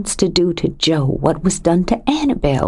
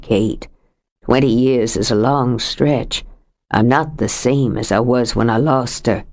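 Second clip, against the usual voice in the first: lightly voiced older man, lower, heavy with grief; a lightly lowered voice for a grieving husband; grieving Sam; 5 semitones lower than usual. Sam mourning his wife.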